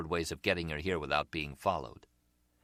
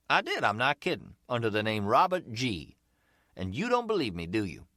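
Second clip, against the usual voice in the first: much higher, louder, probing street hustler; umbrella seller; 4 semitones higher, 4 dB louder than usual. Acted. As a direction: lean in, curious but casual.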